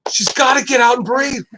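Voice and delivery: high-pitched mock panic, imitating himself; retold panic. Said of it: "I'm just, like, freaking out".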